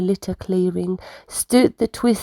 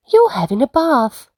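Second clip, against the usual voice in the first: decided; 5 semitones higher than usual. Acted. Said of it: "she decided".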